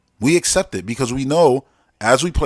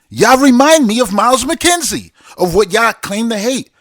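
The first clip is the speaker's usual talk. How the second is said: mocking; 10 semitones higher, 5 dB louder than usual. Mocking commenters, high pitch.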